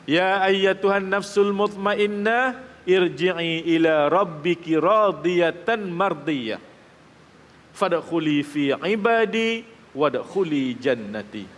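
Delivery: slow, drawn-out chanted Arabic verse; Quran recitation. Acted. Preacher recites the verse to his congregation, slow chant. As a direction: intone the verse slowly, letting each vowel ring.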